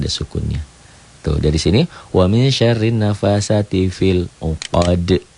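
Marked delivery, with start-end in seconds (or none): 2.1-5.3 slow recitation, final d of "uqad" bounced; qalqalah kubro. Shown as a demonstration. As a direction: stop on "uqad" with an echo after the d. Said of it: "Qalqalah kubro yang kabir". ("uqad" dipantulkan saat berhenti)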